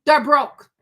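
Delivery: loud, punchy "They're broke"; emphatic. Real, not acted. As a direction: hammer it again, loudly.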